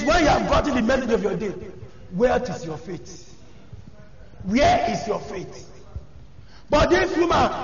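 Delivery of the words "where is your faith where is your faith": low, slow, soft question; searching rebuke. Real, not acted. Preacher quietly pressing the congregation about their faith. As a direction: ask it slowly and let it sink in. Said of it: "preacher's repeated rebuke".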